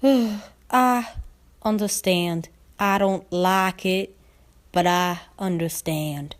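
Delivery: slow, grudging Southern mare; a slow, reluctant drawl; reluctant Applejack. Acted. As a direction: give in slowly, against her will.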